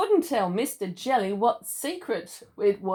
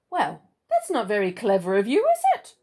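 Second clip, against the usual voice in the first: teasing; 4 dB louder than usual. Acted. Mister Greedy taunts.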